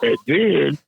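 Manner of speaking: slow mock stoner. Imitating the drugged worker.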